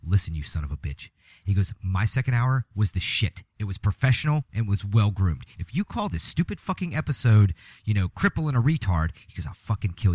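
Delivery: low, menacing imitation of the cohost; mock threat. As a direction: growl it like a mock angry host. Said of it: "he's gonna go".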